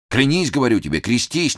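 a hint of a stern old man; menacing insistence. A narrator's reading. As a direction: press him to swear, threatening. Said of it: "настаивал грозно старик".

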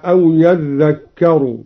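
أو يذكر drawn out slowly, falling at the end; slow recited demo. Shown as a demonstration. Teacher showing the Douri reading to students, slow recitation. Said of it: "هكذا".

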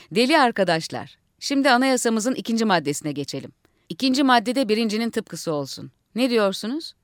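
rousing orator to the assembly; speechmaking leader. Acted. Leader addressing fellow madmen, rousing speech. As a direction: lead the crowd like a rally.

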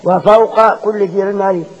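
slow recited وفوق كل ذي علم عليم with every vowel and the قاف fully sounded; every vowel clear. Shown as a demonstration. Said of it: "عايزين يكون يبدو كل حركة".

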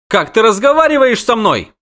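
high, loud affronted little princess; haughty indignation. Acted. Proud girl rebukes the witcher, haughty indignation. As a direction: take great offence at his tone.

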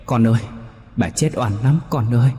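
eerie, plaintive wail from beyond; dead grandmother mourning her unjust death to the boy; ghost grandmother lamenting.

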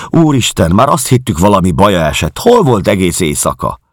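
high, loud, flustered outpouring; agitated. Acted. Landlady to her missing guest, high flustered agitation. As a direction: gush out worry and relief at once. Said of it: "Pulyka vörös volt az izgalomtól".

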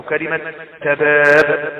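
slow تباب with a bounced final ب; qalqalah at pause. Shown as a demonstration. Teacher giving an example word, تباب ending in a bounced ب. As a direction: stretch تباب, then echo the last ب. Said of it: "فيحدث قلقلة عند القراءة".

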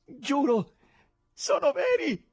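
delighted gallery crowd; joyful shout. A narrator's reading. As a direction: yell it in disbelieving joy. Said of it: "gridavano gioiosamente".

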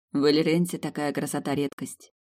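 ordinary delivery

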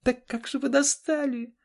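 очень высоко и громко, в ярости; кричи в бешенстве; ссора на крике. Acted. (супруги орут друг на друга, очень высоко и громко)

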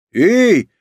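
loud, high-pitched cry of protest; indignant. A narrator's reading. Woman protesting at being volunteered, indignant. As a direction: object with one sharp call. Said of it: "возмутилась та в ответ".

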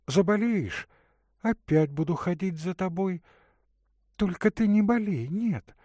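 put-on a caring young woman offering water; Katerina's voice. Katerina's tender speech.

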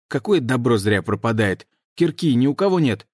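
frustrated. Acted. Shilo complaining about loot.

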